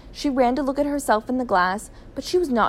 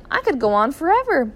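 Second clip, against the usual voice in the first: exhilarated; 6 semitones higher, 5 dB louder than usual. A narrator's reading. Wife exhilarated by flying.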